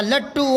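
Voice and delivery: लट्टू with a doubled t, "lat-too"; correct लट्टू. Shown as a demonstration. Teacher correcting pupils, लट्टू as "lat-too". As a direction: hold the tt of लट्टू, no vowel between. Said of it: "आधा टे बोला ही नहीं जाएगा".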